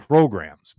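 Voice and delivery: programs set apart and hit firmly, falling; stress on programs. Real, not acted. Telling co-hosts what separates the two teams, stress on programs. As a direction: underline the word programs with a deliberate pause before it. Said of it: "I underline the word".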